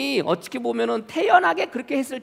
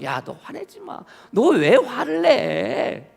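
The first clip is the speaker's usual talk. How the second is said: raised pitch, drawn-out mild chiding; God chiding; 5 semitones higher, slower than usual. Retold or imitated. God coming to someone losing their temper, mildly chiding. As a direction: stretch the question out in reproach. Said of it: "하나님께서 오셔가지고".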